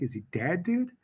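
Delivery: acted wary undertone; retold hushed question. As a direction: lean in and ask it quietly. Leans in with a secret question.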